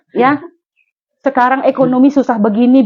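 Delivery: normal talking voice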